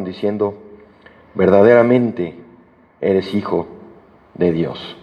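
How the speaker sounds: measured, solemn Bible reading; unhurried scripture reading from the pulpit. Acted. Reads the Bible passage aloud.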